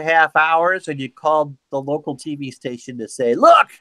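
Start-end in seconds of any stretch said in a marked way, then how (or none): 3.3-3.7 higher, louder mock cry of triumph; excited exclamation. Mocking a friend's proud call to the TV station, excited. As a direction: pop it out like a proud boast.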